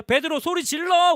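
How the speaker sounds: crying out. Shown as a demonstration. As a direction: proclaim it loudly, drawn out. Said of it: "오늘 설교 제목인데". (길게 늘여 크게 외치기)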